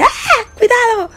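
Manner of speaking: high startled cry of warning; startled scream. Retold or imitated. Girl shrieking a warning at her father on the road. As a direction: shriek a sudden warning at a shadow. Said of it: "gritaba así de".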